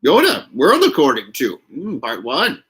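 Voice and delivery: lightly done Yoda, a high hum to start; a quick try at Yoda's voice. Retold or imitated. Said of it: "We're gonna try the Yoda voice".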